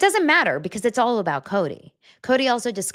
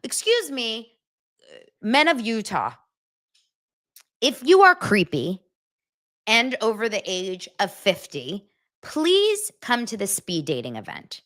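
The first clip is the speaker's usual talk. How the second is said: mock ad voice; 3 semitones higher than usual. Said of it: "and they said".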